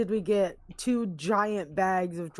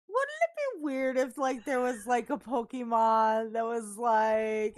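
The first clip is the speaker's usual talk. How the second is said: teasing voice; 3 semitones higher than usual. Retold or imitated. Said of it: "I'll go like".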